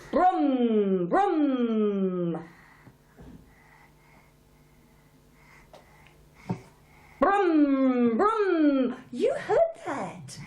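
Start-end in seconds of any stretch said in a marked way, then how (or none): 0.1-8.9 car noise. Shown as a demonstration. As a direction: rumble it out like a toy car. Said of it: "it goes".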